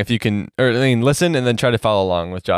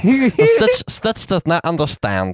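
slow Stitch voice, high cry of his name; 5 semitones higher, slower than usual. Pretend. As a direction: speak as the little alien. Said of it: "that's a really good voice".

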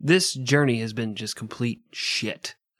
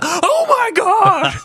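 high, drawn-out shriek of panic; terrified scream; 10 dB louder, much slower than usual. Retold or imitated. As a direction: scream like you're being ambushed. Captain attacked by pirates.

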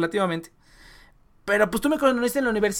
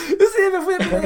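higher, louder mocking repeat; 9 semitones higher, 4 dB louder than usual. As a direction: parrot it back in a high mocking voice. Repeats line in a put-on voice.

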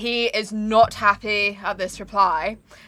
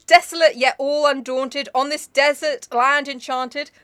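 dramatic poem reading; 3 semitones higher, slower than usual. Acted. Reading The Raven aloud to her co-host, in a declaiming voice. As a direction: give the verse full theatrical weight.

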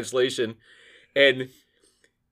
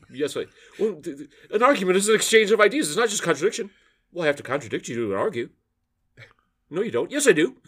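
mock Argument sketch exchange; 5 semitones higher, faster than usual. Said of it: "The paying for the argument".

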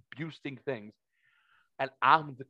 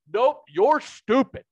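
mock dismissive friend; 7 semitones higher, 7 dB louder, slower than usual. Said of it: "he went".

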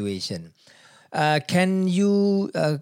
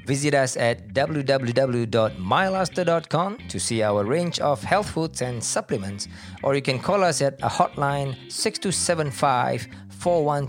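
ad read. Acted. Sponsor ad read.

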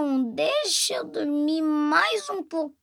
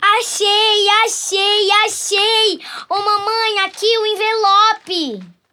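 excited; 5 semitones higher, 5 dB louder than usual. Acted. Child finds Santa's envelope.

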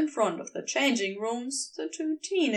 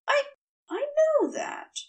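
stammering. A narrator's reading. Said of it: "Aziraphale stammered".

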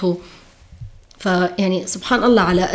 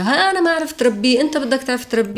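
scolding father; 4 semitones higher than usual. Retold or imitated. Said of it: "ضل أبوه يقول له إياها".

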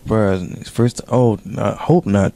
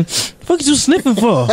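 teasing disbelief; 9 semitones higher, slower than usual. Real, not acted. Mocking friend sniffing.

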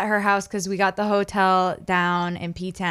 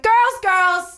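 much higher and louder playful voice; mock-diva scolding; 10 semitones higher, 4 dB louder than usual. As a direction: hush squabbling cats like a diva. Breaking up cat fight.

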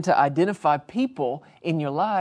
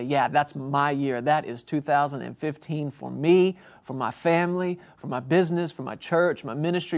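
confident declaration. Shown as a demonstration. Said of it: "lay hold to that and say".

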